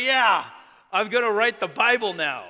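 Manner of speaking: loud, high, eager boast; bursting with pride like a kid; proud boy. Retold or imitated. Boy telling his mentor his big plan, loud and eager.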